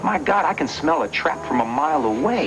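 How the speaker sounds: angry accusation. Acted. Accuses her of setting a trap.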